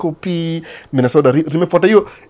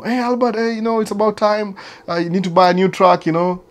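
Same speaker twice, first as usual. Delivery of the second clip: mock dealer voice; 7 semitones higher than usual. Volvo dealer calling him.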